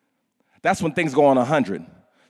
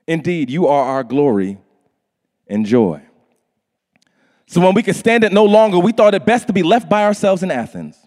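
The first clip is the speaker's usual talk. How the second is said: louder, earnest scripture reading; 4 dB louder than usual. Acted. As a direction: read the passage with weight. Reads scripture aloud.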